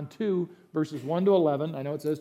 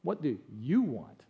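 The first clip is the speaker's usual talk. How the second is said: "What do you want?" softer, lower and slow, easy on "you"; gentle; 4 semitones lower, 4 dB quieter than usual. Shown as a demonstration. Preacher guessing how Jesus gently asked, soft and slow. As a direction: ask it kindly, slowly. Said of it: "I think he probably said".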